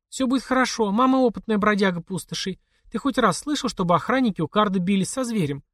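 put-on calm the boy with a familiar saying; mother soothing. A narrator's reading.

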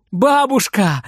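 joyful call. Acted. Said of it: "радуется Фридер".

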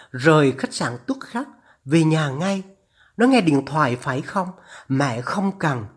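lightly voiced urgent, forbidding mother; a hint of a mother pleading and ordering; distressed mother. Voices the urging mother on the phone. (giọng người mẹ khẩn khoản ngăn con)

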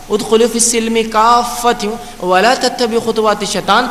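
slow, measured Arabic chant; تلاوت کا انداز; Quran recitation. Acted. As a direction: recite the verse with reverent care. Verse recited again.

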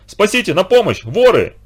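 high, loud panicked yells; shouting in panic. A narrator's reading. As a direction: cry out for help in alarm. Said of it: "кричал пан Фанфара". (громкий испуганный крик)

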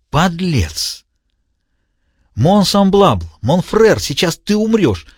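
high, hissing then shouted death threat; raging villain. A narrator's reading. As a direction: spit the French words with hatred. Diogenes voiced high.

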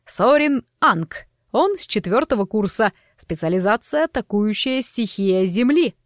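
theatrical auctioneer announcing lots; showman host. Acted. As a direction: sell the students like a showman.

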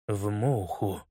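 low, soft, grim murmur; gloomy repeat. A narrator's reading. Holmes gloomily repeating the news about Kostya. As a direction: let the words sink heavily. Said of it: "мрачно повторил".

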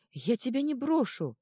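high, loud desperate shout. A narrator's reading. Гномелла shouting to Ёж she won't leave, high and loud. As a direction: cry it out to him at full voice. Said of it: "кричала ему Гномелла".

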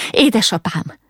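high, restrained cry to a father. A narrator's reading. Ilka to her coughing father, crying out. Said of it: "kiáltotta".

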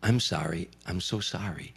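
soft, hushed apology; a hint of a whisper; retold whisper. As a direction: murmur it like a lost old singer. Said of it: "he started whispering into the microphone".

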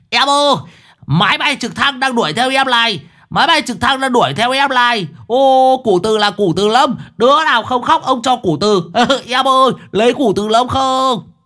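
high, loud crazed shout. A narrator's reading. Madman shouting at the cloth seller. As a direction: yell after the girl like a madman. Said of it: "nó hét".

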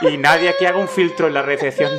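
retold indignant guest's complaint; a bit pissed off. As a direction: complain to the receptionist, raising the voice. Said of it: "hablando un poco cabreado".

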